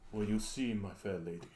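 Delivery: lightly voiced posh English vampire. Shown as a demonstration. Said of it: "I become an English vampire".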